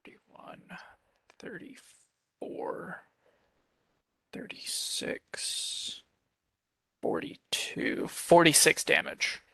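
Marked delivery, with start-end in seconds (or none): 0.0-8.1 slow whispered tally; whispered counting. Real, not acted. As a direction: whisper the running total slowly. Adding damage under breath.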